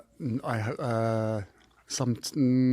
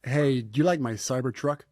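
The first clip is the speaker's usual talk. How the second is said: put-on American accent. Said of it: "Can you do an American accent?".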